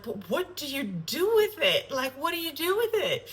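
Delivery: high, puzzled friend voice; high-pitched imitation of a curious girlfriend; friend's quizzical question. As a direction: mimic a baffled friend asking. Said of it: "one of my friends is like".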